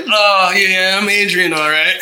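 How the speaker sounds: lightly voiced oiled-up guy; Adrian. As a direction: play a mock self-introduction. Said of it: "Adrian is, like, this light-skinned".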